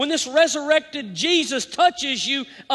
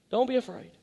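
tender comfort; 5 dB quieter, faster than usual. Retold or imitated. Jesus voiced, tender comfort.

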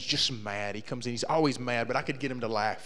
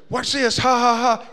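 cocky buddy; 8 semitones higher, 7 dB louder, slower than usual. Retold or imitated. Eric showing off in Jeep.

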